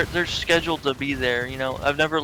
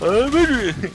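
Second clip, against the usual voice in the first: mixed cartoon voice; 8 semitones higher, 5 dB louder, slower than usual. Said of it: "another dimension".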